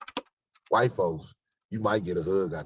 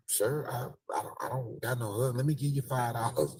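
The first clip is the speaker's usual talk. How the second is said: higher, polite lady brushing him off; mock lady's voice; 5 semitones higher than usual. Woman refusing a hug, mock polite voice. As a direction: play a flustered woman offering money instead. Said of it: "She like".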